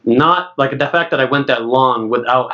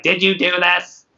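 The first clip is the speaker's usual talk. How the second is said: higher-pitched mock nagging wife; imitating wife; 4 semitones higher than usual. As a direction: lightly mimic a nagging wife asking. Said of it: "my wife that's like".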